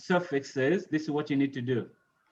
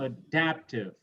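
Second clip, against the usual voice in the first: Adaptive with the weight on "dap"; aDAPtive, clearly stressed; 3 semitones lower, 4 dB quieter than usual. Shown as a demonstration. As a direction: lean on the second syllable of Adaptive. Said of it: "So the same for all of these".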